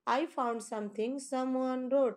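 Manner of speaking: slow, deliberate read-aloud of an English poem line. Shown as a demonstration. Teacher reads a poem line to students, very slow and measured. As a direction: read each word slowly for the class. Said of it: "teacher reads poem lines slowly".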